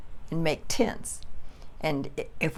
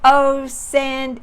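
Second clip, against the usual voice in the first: calling out; 9 semitones higher, 9 dB louder than usual. Retold or imitated. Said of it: "I'd go".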